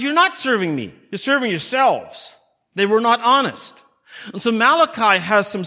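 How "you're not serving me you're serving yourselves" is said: mild rebuke as God, pitched higher, slowing at the end; rebuking God. Retold or imitated. God rebuking people who claim to serve Him, stern. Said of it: "God says".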